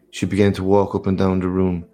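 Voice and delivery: ordinary delivery, nothing marked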